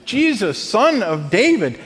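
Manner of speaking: calling out high and loud, imitating; mock shout. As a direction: cry out to a passing figure. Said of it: "he shouted".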